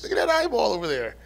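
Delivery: mock gawking. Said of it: "Poop was just doing bit right there".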